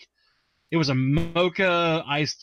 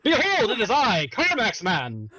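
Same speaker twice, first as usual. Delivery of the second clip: superhero voice; 7 semitones higher than usual. Pretend. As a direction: announce yourself like a superhero. Grand superhero announcement.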